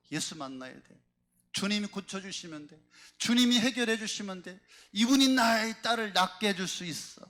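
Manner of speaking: acted mounting resolve; building conviction. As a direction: voice the woman talking herself into hope. Woman's hopeful resolve, voiced by preacher.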